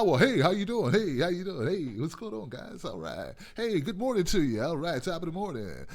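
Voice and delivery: lightly voiced chipper office greeting; a hint of the cheerful corporate guy; corporate white guy. Mocking the corporate white-guy stereotype. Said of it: "That second stereotype with a white guy".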